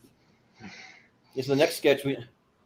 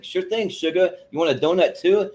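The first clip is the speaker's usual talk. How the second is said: Southern waitress; 7 semitones higher, 4 dB louder than usual. Retold or imitated. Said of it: "totally Southern redneck".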